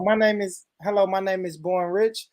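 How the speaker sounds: American trying on a posh voice; country-tinged posh accent, formal introduction. Shown as a demonstration. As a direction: attempt a polite posh telephone greeting. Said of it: "It's hard for me to even go into it".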